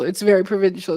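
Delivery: put-on Palm Beach lockjaw accent; through gritted teeth. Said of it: "talk through your teeth like they do up in Palm Beach".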